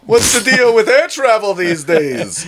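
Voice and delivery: put-on slow, high Jewish accent comic; old-school Jewish comedian accent, slow. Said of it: "I give you a Jewish accent".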